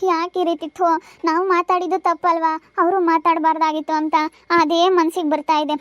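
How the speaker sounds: acted tearful, halting confession; tearful distress. Troubled woman confiding in her comforting sibling, tearful. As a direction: speak haltingly through held-back tears. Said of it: "ಕಣ್ಣೀರ್ ಹಾಕ್ಬೇಡ ಅಕ್ಕ".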